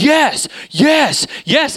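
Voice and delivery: high, eager cheering of yes; excited yes. Retold or imitated. Minister cheering on the preacher's story, high and excited. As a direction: egg the preacher on, jumping with joy. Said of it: "this guy's, like, getting excited".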